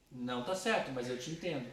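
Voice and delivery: calm understanding. Shown as a demonstration. Teacher demonstrating the right way to correct someone, calm and gentle. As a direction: reassure while still saying it was wrong. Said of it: "Olha só como é que é".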